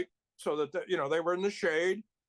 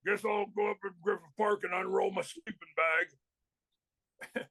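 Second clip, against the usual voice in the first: slow imitation of a biker buddy; resigned biker, lightly voiced and unhurried. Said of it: "he goes".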